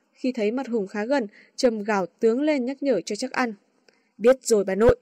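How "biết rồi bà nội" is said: playfully fed-up retort; mock annoyed. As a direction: pretend to be irritated. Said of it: "Hùng làm vẻ bực mình".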